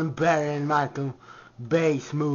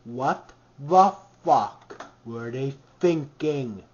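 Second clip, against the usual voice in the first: slow repeat; 4 semitones lower, slower than usual. Shown as a demonstration. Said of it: "I ask again".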